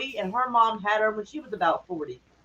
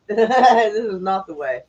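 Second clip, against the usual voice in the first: laughing; 5 dB louder, much slower than usual. Real, not acted.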